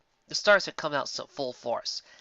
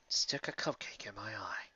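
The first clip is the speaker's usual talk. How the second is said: hushed, suppressed laugh in it; holding back a chuckle; 4 semitones lower, 10 dB quieter, slower than usual. A narrator's reading. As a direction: repeat it trying not to laugh. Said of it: "barely unable to contain his chuckle".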